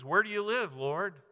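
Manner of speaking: high, loud eager question; eager questioner. Acted. A would-be follower calling out to Jesus, high and eager. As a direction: call out keenly to Jesus.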